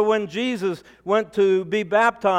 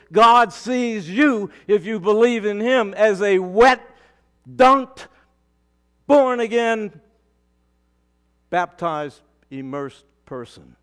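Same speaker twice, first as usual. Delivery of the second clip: louder with each word, building to a cry; preaching build; 3 dB louder than usual. Real, not acted. Pastor building to a climax for his congregation, louder each word. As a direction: drive the list home, rising and louder.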